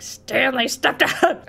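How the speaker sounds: drawn-out, slow imitation of the narrator; insistent mock narrator. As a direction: stretch each word like an impatient storyteller. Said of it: "And he's like".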